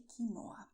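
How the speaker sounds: "quinoa" as kee-NO-a; stress on NO. Shown as a demonstration. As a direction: lean on the middle syllable of "quinoa". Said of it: "it's also very common to say".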